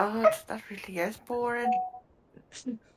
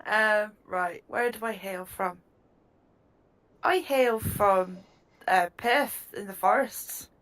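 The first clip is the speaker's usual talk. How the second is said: Irish gnome; slower than usual. Acted. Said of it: "the Republic of Ireland accent".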